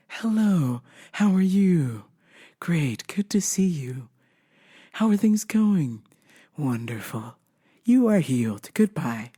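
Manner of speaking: stiff sing-song greeting and blessing; imitating a too-nice pastor; robotic pastor. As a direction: mimic a pastor on autopilot. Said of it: "And he goes".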